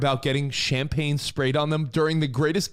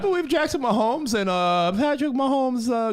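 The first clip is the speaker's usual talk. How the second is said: high cartoon voice, r's turned to w's; Elmer Fudd; 6 semitones higher than usual. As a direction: ham up a w-for-r speech slip. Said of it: "Slipping into your Elmer Fudd?".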